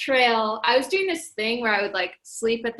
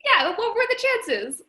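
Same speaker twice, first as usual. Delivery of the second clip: excited squeal; 11 semitones higher than usual. Retold or imitated. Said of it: "I'm like".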